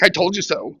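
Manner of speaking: told-you-so through a laugh; laughing tease. Retold or imitated. Wife gloating at husband, laughing. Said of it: "she's like".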